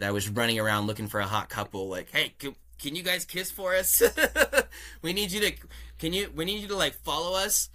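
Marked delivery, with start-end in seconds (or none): 2.1-7.7 higher, eager hype voice with a laugh; hyped call-out. Retold or imitated. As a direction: pitch it up like coaxing strangers at a festival. Calling out to a couple.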